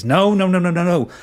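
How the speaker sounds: taunting refusal; gleeful dismissal. Acted. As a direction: wave it away with relish. Villain dismisses with relish.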